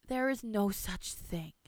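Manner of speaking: slow, reassuring grandmother; gentle insistence. Acted. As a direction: calmly talk a child out of fear. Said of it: "the woman insisted".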